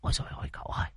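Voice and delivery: breathy whispered alarm, no voice; old exorcist whispering his alarm into the young master's ear. Acted. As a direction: lean in and whisper the worry. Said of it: "Muôn Phọt ghé tai cậu".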